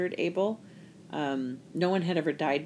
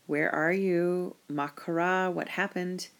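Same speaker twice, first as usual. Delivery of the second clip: gentle calm question; 2 semitones higher, slower than usual. Shown as a demonstration. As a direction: invite them to answer, no blame. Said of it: "He's more like".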